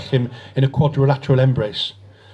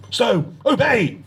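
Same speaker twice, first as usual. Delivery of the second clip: slow, high, stretched-out order to obey; commanding; 9 semitones higher, much slower than usual. A narrator's reading. Decker commanding his probationer, slow stretched obey. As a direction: draw out obey as a firm command.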